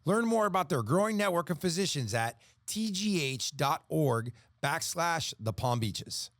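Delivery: polished sponsor read with crisp phrasing. Real, not acted. Announcer reads a hospital sponsor message, ad read. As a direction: read it like a radio health-system spot.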